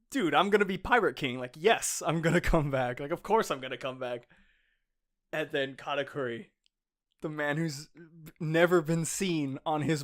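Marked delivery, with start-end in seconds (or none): 0.1-4.3 raised-voice mock yell, easing at the end; half-yell it as an indignant retort; retold yell. Luffy answering his beaten rival, retold yell. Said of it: "yells at him, like".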